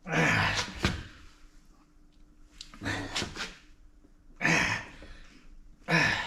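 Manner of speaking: strained grunt while pushing; effort grunt. Real, not acted. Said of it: "Sorry about the grunting sound".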